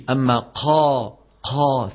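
"قا" with a rush of air on the qaf; faulty breathy qaf. Shown as a demonstration. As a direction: let breath spill out after each "قا". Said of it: "سمعانين هذا الصوت".

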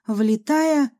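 ordinary delivery, nothing marked

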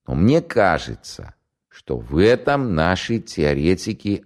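slow, formal, deliberate delivery; measured envoy voice. Acted. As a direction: recite it slowly like a foreign envoy. Courier reciting Hitler's message.

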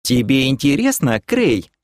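mildly threatening purred question; menacing purr. Acted. Kelen challenges Krey, menacingly purring. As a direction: purr it with a warning. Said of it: "грозно промурлыкала Кэлен".

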